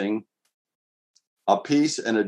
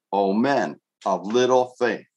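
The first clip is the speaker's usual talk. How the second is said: "O men of little faith" drawn out slowly, each word weighed; slow, weighty repeat. Shown as a demonstration. Pastor repeating the rebuke to himself, slow and heavy. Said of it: "that just clobbers me on the head".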